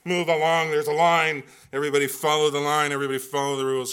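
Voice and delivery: a rule-loving German bellowing at the crowd; mock yell. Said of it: "every German molecule inside of me is yelling".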